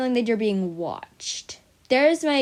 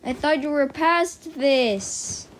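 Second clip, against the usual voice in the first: mock viewer; 6 semitones higher, slower than usual. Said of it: "Yes, I know what you're thinking".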